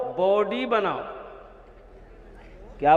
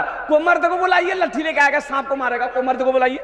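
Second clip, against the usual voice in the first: higher comic yell for help, mimicking the women; mock yell; 4 semitones higher, faster than usual. Preacher mocking the youth who yells with the women, higher hammed-up yell. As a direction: ham up the timid youth shouting along with them. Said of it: "ये भी चिल्ला रहा".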